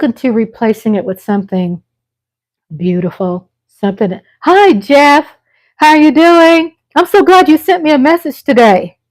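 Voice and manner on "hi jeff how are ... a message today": high, excited hello to a buddy; light up as a friend drops in; delighted greeting. Real, not acted. Host greets Jeff joining the live, high and delighted.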